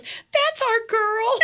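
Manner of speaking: high, very slow, laughing through it; proud, laughing praise; fond nurse laughing. Retold or imitated. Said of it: "she goes".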